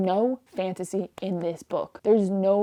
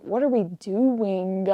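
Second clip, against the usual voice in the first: slow, exasperated question at usual volume; drawn-out annoyance; much slower than usual. Retold or imitated. Fed-up reader questioning the book aloud, slow exasperation. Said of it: "verbalizing every annoyance".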